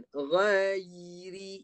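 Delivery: "Ghairi" slow, with a held y before ri; model reading. Shown as a demonstration. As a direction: demonstrate "Ghairi" in three clear sounds. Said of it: "Ya, betul kan?".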